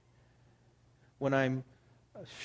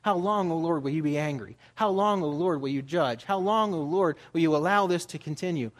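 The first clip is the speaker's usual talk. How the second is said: crying out to God; 3 dB louder than usual. Retold or imitated. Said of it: "do people cry out".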